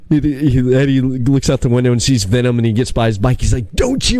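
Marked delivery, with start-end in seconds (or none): 3.7-4.2 high-pitched mock warning. Retelling Eddie seeing Venom by his bike, mock warning. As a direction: imitate a panicked warning, pitch jumping up. Acted warning in retold movie scene.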